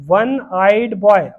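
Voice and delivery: वन आइड बॉय said slowly, word by word; slow example. Shown as a demonstration. Teacher slowly modelling the example phrase for students. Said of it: "वन में आप देखेंगे ओ लगा है".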